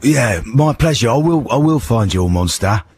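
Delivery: hoarse London hard-man voice; Ray Winstone impression. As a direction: play a tough geezer with a sore throat. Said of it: "I'm Ray Winston".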